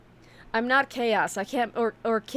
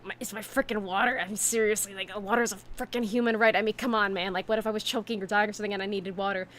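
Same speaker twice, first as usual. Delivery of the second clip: retold grumble, lightly voiced; mock-mutter the complaint under your breath; re-enacting grumbling to her friend about the water; angry muttering. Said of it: "angrily muttering to myself".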